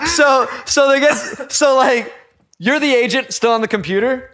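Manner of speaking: high, laughing, slow; can't stop laughing at it; laughing through it. Real, not acted. To his friend about the delayed plane, laughing.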